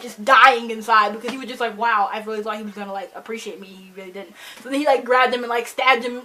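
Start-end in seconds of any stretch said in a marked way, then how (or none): 1.8-4.3 trailing off softer and softer; crushed son's inner thought, fading out; fading inner lament. Retold or imitated. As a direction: let the hurt drain the voice away. Inan's inner thoughts, dying inside.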